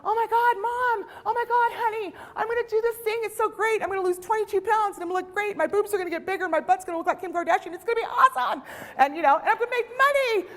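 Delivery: high, bubbly, breathless gush to Mom; gushing excitement. Retold or imitated. New recruit gushing to her mom about the business, high excited squeal. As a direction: squeal it out like an overexcited newbie. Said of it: "you're excited, and you're like".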